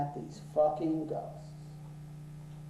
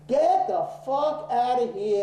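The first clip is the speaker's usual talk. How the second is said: higher, louder get out; angry shout, raised; louder angry order; 5 semitones higher, 4 dB louder than usual. Retold or imitated. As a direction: bark it at them. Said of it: "You broke my fucking computer".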